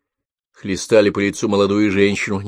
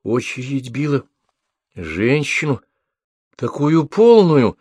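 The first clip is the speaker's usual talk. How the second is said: higher, slow astonished questions; surprised asking back; 6 semitones higher, slower than usual. A narrator's reading. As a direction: recall it in disbelief. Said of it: "переспросил Тимофей". (Тимофей удивлённо переспрашивает)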